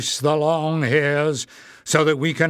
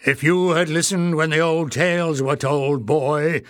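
louder goblin elder snapping; 3 semitones higher, 3 dB louder than usual. Acted. Warren rebuking Clef, snapping. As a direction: snap back at the careless boy. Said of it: "snapped the other".

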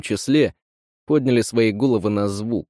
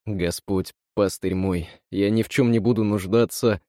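hushed, softer praying; quiet prayer; 2 semitones lower than usual. Acted. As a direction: pray softly in fear. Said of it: "Ларс и Жан молились".

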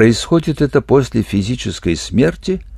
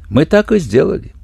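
whispered with a smirk; sly grinning whisper; 8 semitones higher than usual. A narrator's reading. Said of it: "ухмыльнулся полковник Тхат". (ухмыляясь шёпотом)

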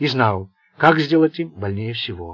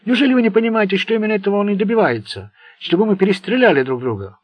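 loud, higher pleading shout; urgent shouting; 8 semitones higher, 6 dB louder than usual. A narrator's reading. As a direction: yell them apart. Plaski stopping the fight.

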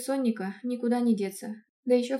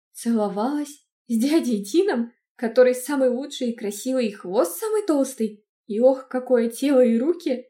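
excited gushing; 3 semitones higher, 8 dB louder than usual. Acted. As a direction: squeal it out, scandalised and thrilled. Niece gushing in disbelief. (восторженно, громко)

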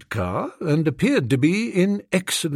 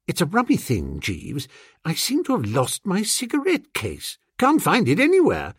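lightly voiced upper-class master, pitched up; mildly flustered gentleman; 5 semitones higher than usual. Master telling his valet of a lost cigarette case, mildly flustered. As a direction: play a slightly puzzled master.

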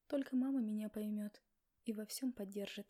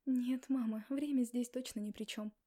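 heated, louder protest; ardent objection; 4 dB louder than usual. Acted. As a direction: push back passionately at mom. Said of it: "пылко возразила я".

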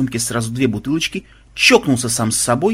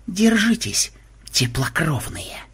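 high opening sinking into slow menace; theatrical villain warning; menacing vampire; 4 semitones higher, slower than usual. A narrator's reading. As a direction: threaten them, drawing out the last word. Vampire's threat while casting a spell.

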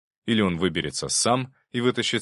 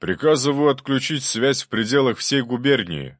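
loud, firm order; a governor ordering the clerk by phone, firmly; 6 semitones higher, 6 dB louder than usual. A narrator's reading. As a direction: command it with no room for doubt. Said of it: "твёрдо сказал он".

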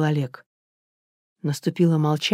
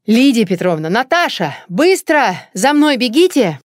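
higher, louder panicked calling; alarmed shouting; 6 semitones higher, 6 dB louder than usual. Acted. Oleg running up to the women, panicked shouting. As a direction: yell for help across the garden. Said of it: "услышали криков прибежавшего Олега".

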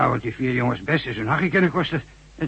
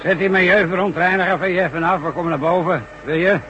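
calling out; 6 semitones higher than usual. Acted. Boss shouts up over machine.

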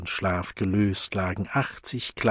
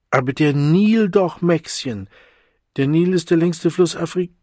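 insistent urging; 9 semitones higher, 8 dB louder than usual. Acted. Adult urging child, insistent.

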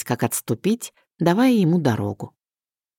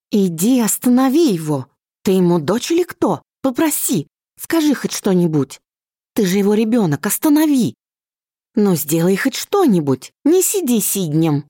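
hysterical mother; 6 semitones higher than usual. Acted. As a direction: push her daughter, voice climbing high.

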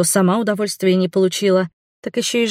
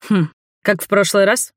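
disgusted. A narrator's reading. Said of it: "Брезгливо выдавил он".

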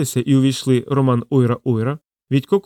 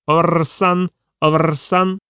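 higher-pitched parrot cry; parrot squawk; 4 semitones higher, much slower than usual. A narrator's reading. Parrot suddenly yells into the room, squawking. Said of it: "папуга заволав".

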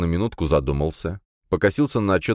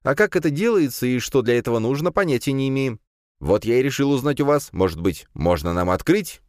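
high, bright-eyed student voice pleading with the rector; a hopeful young man asking a favour; eager young student; 9 semitones higher than usual. A narrator's reading. Student hopefully asks the rector about a club, in a high young voice.

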